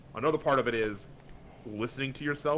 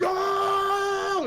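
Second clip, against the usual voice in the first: sudden loud, much higher "No!"; shouted no; 7 dB louder than usual. Retold or imitated. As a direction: friends blurting a loud denial. Friends reassure about recording.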